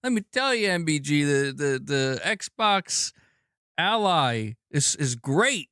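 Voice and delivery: high, gushing imitation of a fan; mocking a fanboy. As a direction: parody an over-keen console fan. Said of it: "You come in here and be like".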